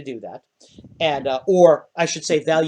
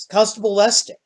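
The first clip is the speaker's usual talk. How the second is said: gnome host; 7 semitones higher, 5 dB louder than usual. Acted. Gnome greets the constable.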